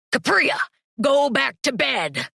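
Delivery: lightly voiced stern parent, high call then slow; a touch of a strict father ordering the pup to bed; stern parent dog. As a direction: parent Cerberus calling the pup back to bed, mildly stern. Parent Cerberus scolds pup.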